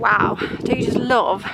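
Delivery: a little out of breath from the climb; breathless, catching air between words. Real, not acted. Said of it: "So I'm just a bit out of breath".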